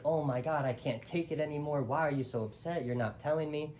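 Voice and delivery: mildly hammed-up, bewildered frustration; exasperated. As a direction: plead as if unable to bear it. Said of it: "he was so confused".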